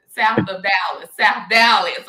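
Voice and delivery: emphatic call-out. Real, not acted. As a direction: shout out your neighbourhood. Host stressing her roots.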